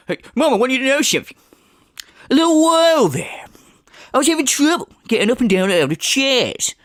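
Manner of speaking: high, hushed, overdramatic confession; mock earnest confession. Mocking the streamer telling his mum about chairs. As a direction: whisper it like a grave secret. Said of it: "It's, uh".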